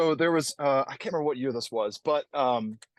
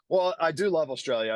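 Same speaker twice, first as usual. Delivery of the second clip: American having a go at Australian; attempted Australian accent; 3 semitones higher than usual. Shown as a demonstration. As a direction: try on a light Australian accent. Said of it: "I try to speak in the accent".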